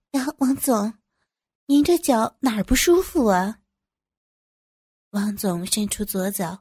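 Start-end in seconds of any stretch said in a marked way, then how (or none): 0.1-3.6 higher-pitched, solicitous question; hurried concern. Acted. Employee asks boss about a painful foot, hurried concern. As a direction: fuss over the boss. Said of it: "急忙走到王总蹲下身前问道".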